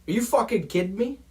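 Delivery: can't believe the call; angry incredulous shout at the replay; outraged disbelief. Real, not acted. Outraged at flag on video.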